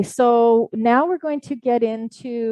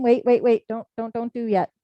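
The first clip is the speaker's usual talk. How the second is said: urgent stop; 2 semitones higher than usual. Real, not acted. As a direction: halt them before they jump ahead. Stops eager class starting early.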